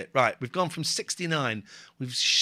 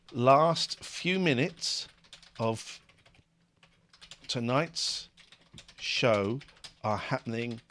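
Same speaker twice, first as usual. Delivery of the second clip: dramatic announcement; 3 semitones lower, slower than usual. Acted. Dramatic countdown to the show.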